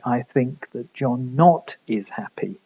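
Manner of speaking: slow, deliberate reading of "I think that John not is happy"; ungrammatical example. Shown as a demonstration. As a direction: spell out "I think that John not is happy" slowly as the wrong order. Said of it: "You can't say".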